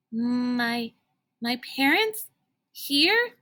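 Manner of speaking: falter, then squeak the last word; a startled boy caught off guard; nervous stammer. A narrator's reading. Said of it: "It was a nervous response".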